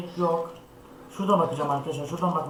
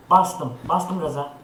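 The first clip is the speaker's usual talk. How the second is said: louder, sudden cry of triumph; excited burst; 6 dB louder, much slower than usual. Real, not acted. Fleeing the enemy in the game, loud excited blurt. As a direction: blurt it out as you bolt. Sprints away from the monster.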